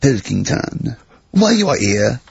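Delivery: mock French-accented emperor. Nero summoning a delivery boy, mock French accent. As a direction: put on a rough French accent. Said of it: "I don't know why he's French".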